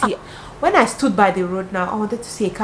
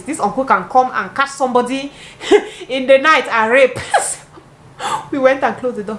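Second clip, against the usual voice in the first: laughing; 4 semitones higher, 3 dB louder than usual. Real, not acted. Laughing while telling.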